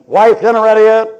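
loud, high call through the house; hollering husband. Acted. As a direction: holler demandingly for your dinner. Husband hollering to wife at home.

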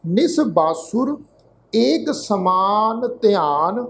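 slow, measured Gurbani reading; drawn-out words with pauses between phrases; scripture recitation. Shown as a demonstration. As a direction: recite the verse slowly, phrase by phrase. Recites scripture verse for a lesson.

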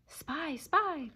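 high repeated bird cry; cawing crows. A narrator's reading. Crows jeering at the dog, cawing. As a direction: caw the word from overhead. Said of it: "the crows cawed".

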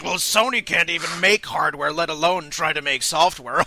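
mock French accent, lightly done; a hint of French as the snooty Sega bigwigs; playful French-accented sneer. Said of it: "I don't know why I put a French accent there".

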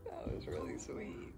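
whispering. Real, not acted. Whispered aside at the birth.

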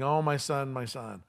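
soft, understated lament; grieving father. Acted. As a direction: murmur it in restrained grief. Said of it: "And he's saying".

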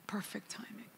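hushed whisper of the same words; awed whispered echo. Acted. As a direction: breathe it out, no voice. Repeated as a whisper.

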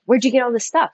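imitating a stranger's mildly pushy challenge; a touch of accusing edge, lightly acted; aggressive tone. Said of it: "a really kind of aggressive tone".

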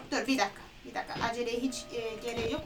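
hushed self-calming. Real, not acted. Gamer hushing herself to stay calm in the dark, quiet. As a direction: talk yourself down quietly.

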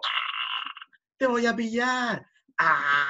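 ¡a que te pillo!, agudo y juguetón; juego de persecución. Pretend. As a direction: persigue al bebé jugando, voz alta. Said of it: "yo lo sigo y le digo". (juego con el bebé que gatea, voz aguda y juguetona)

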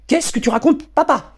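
shrill daughter confronting her father; shrill spoilt girl. Acted. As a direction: whine up high like a spoilt teen. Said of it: "lança-t-elle d'une voix aiguë".

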